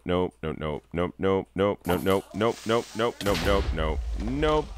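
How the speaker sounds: panicked string of nopes; backing away in fright, chanting nope; scared horror game streamer. Real, not acted. In-game danger near the lava.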